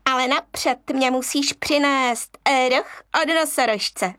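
a smirking monkey tricking the cub; sly monkey. Acted. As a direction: set your trap slyly.

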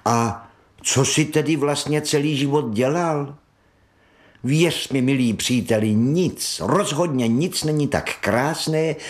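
enthusiastic rat. Acted. Rat enthuses about boating.

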